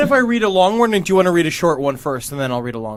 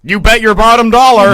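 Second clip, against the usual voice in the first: folksy ghost woman; 3 semitones higher, 5 dB louder than usual. Acted. Friend voices the ghost woman.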